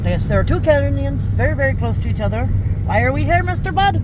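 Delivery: put-on British accent. Asking her husband why they came, mock British accent. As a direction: tease Mister Bud in a jokey British accent. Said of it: "I don't know why I'm doing an accent".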